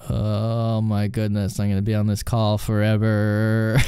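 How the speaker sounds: slow, drawn-out dismay; mock dread. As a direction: groan it out in weary dread. Agent's dread at endless call.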